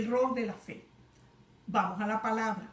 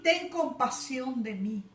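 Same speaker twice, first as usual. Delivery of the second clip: pleading cry; 2 semitones higher than usual. Retold or imitated. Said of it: "comenzó a gritar diciendo".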